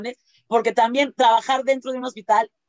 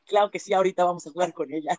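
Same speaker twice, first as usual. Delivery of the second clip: fast eager reply; 6 semitones lower, faster than usual. Retold or imitated. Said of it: "Y yo así de".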